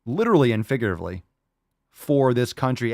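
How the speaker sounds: slow, hammed-up heroic praise; mock solemn tribute. Host praising a fan's sacrifice in mock solemnity. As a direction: honor him like a fallen war hero, overdone.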